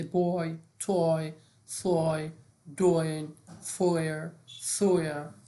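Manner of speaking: "بوی، توی، سوی، دوین، فویر، سویا" each with an oy glide; OY as اوی. Shown as a demonstration. Teacher drilling OY examples, each said as اوی. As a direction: model each word separately with اوی.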